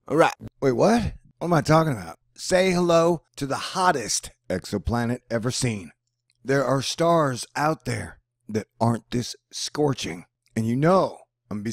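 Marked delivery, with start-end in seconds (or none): none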